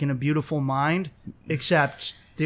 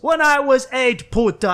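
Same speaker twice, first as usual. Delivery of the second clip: ranting roommate; 9 semitones higher, 7 dB louder than usual. Retold or imitated. Roommate imitating her tirade at police, loud rant.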